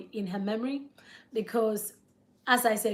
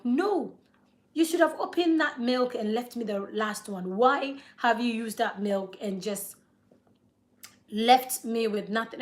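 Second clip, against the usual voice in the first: retold fuming. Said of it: "I was fuming at him".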